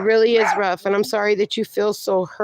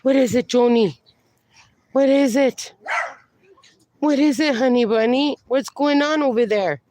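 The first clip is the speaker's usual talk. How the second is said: urging the dog; 3 semitones higher than usual. Real, not acted. Asking an alerted dog what it senses.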